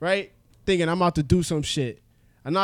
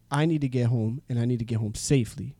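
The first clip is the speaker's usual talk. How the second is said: put-on lower, softer drunk plea; quiet pleading; 6 semitones lower, 7 dB quieter than usual. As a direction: mumble it, earnestly pleading. Pleading drunk to cab driver.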